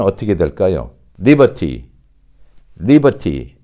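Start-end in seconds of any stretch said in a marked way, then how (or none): 1.2-1.8 British "liberty" as "libah-tee", true T; British model word "liberty", crisp T; British pronunciation. Shown as a demonstration. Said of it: "이건 영국식 발음이 되겠죠". 2.8-3.6 British "liberty" as "libah-tee", true T; British model word "liberty", crisp T; British pronunciation. Shown as a demonstration. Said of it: "이건 영국식 발음이 되겠죠".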